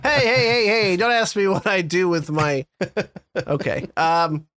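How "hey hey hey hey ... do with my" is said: mock angry outburst. Mocking someone who gets angry at every sentence: hammed-up indignant outburst. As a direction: play a touchy guy snapping at someone over nothing. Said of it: "you're getting angry at somebody".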